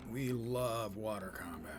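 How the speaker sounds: drawn-out mock enthusiasm; slow down on the love for dry sarcasm; sarcastic. Gamer feigning love of water combat to viewers, sarcastic.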